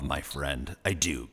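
soft, low and sincere; affectionate aside. Real, not acted. Host softens a complaint to a favorite guest, warm low aside. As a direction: drop down low and soft to reassure.

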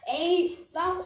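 panicking gamer. Real, not acted. Surprised by attack.

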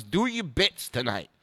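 lightly imitated insistent comic star; Dice. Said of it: "He goes".

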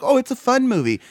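high, gushing mock fan. Mocking fans of the movie.

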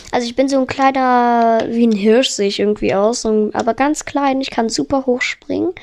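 ordinary delivery

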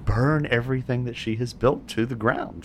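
slow, menacing villain speech; gloating villain. Acted. Villain gloating through the door at the trapped party. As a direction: savor each word of the threat.

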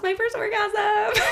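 high laughing finish. Real, not acted. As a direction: laugh through the punchline. Laughing wrap-up.

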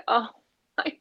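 gushing, high-pitched exaggerated thanks; mock grateful child. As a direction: play a child absurdly thankful for being yelled at. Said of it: "they've gone".

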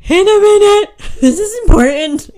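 put-on loud, high kid's holler; imitated yelling back. Kids yelling back at dad mid-game, imitated impatient shout. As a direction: shout back, too busy to come.

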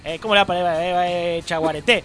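a loose, put-on Paraguayan accent, trailing away. To the Mexican friend, griefstricken in a mock Paraguayan accent. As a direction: play a mournful Paraguayan fan. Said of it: "no me sale el paraguayo".

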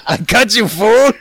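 high, laughing Chicano caricature; aggressive mock Chicano accent. Co-host mock-threatening the host, aggressive Chicano accent. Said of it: "This is gonna be very aggressive".

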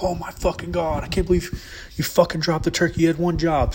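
high, exasperated mock rant; furious dad. Dad scolds son for dropping the turkey, mock furious rant. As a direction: blow up at the kid like an angry dad. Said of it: "My dad loses his shit".

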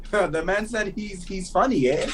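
hammed-up Toronto slang accent. Co-host mocking the host who teased them, in Toronto accent. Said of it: "that's a Toronto accent right there".

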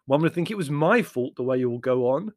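peeved and put-upon; irritable. Acted. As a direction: complain with mild exasperation. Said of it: "said Larry irritably".

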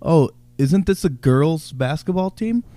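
slow, feigned-innocent question; mock puzzlement, drawn out; passive-aggressive. Shown as a demonstration. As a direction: needle him politely, taking it slow. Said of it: "No, you passively aggressively talk shit".

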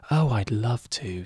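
lightly imitating the co-host, drawn out slowly; a slow, stretched-out hint of someone else's voice; Jacob impression. Host mimics co-host agreeing to guest on books show, slow light impression. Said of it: "That sort, that sort of voice".

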